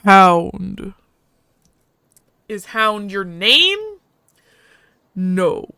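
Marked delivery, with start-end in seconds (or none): 0.1-0.9 a hint of a gruff alien dog-man; slow, heavy foreign-sounding voice; gruff alien husky. The husky speaking to the stranger, lightly gruff. 5.1-5.7 a hint of a gruff alien dog-man; slow, heavy foreign-sounding voice; gruff alien husky. The husky speaking to the stranger, lightly gruff.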